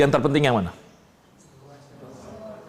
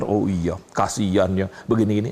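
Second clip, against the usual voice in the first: mock God's hollow pity; 7 semitones lower than usual. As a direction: lightly voice God's empty sympathy. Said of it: "kalau Tuhan ngomong bukan kayak teman kita".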